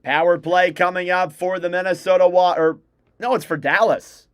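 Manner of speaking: brisk broadcaster's call of the action; live play-by-play. Acted. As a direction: call the hockey game live for stream viewers.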